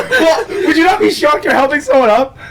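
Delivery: high, loud protest through laughter; laughing protest. Real, not acted. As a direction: defend yourself while cracking up. Defending his reaction while laughing.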